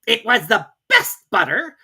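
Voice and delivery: slow, high timid reply; meek March Hare. A narrator's reading. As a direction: excuse himself weakly. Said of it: "the March Hare meekly replied".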